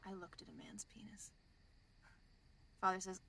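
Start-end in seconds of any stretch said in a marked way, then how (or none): 0.1-1.3 an embarrassed nun whispering her sin; whispered confession. Retold or imitated. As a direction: breathe it out, ashamed, barely voiced. Nun confessing in told joke.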